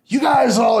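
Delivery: high, loud raspy bark; raspy gym-bro shout; Dane's raspy voice. Retold or imitated. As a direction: imitate a jacked guy yelling at the room. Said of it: "he's got a real graspy voice".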